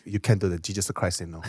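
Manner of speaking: low, soft mock Korean accent; imitated Korean accent. Storyteller imitates a Korean guy scolding him, Korean accent.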